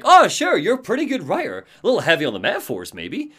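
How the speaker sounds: high, quick teasing Sarah; fast playful ribbing. Retold or imitated. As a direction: tease him lightly, rattling it off. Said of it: "And Sarah's like".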